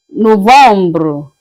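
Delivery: Novembre said no-vam-bro; French pronunciation. Shown as a demonstration. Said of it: "Je répète".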